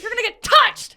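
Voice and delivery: high, loud joking threat; mock threat. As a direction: yell it like a game taunt. Joking gamer threat, shouted.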